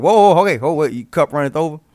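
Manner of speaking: startled, high, loud overwhelmed gasp; surprised. Retold or imitated. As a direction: act overwhelmed by a sudden flood. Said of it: "It's like".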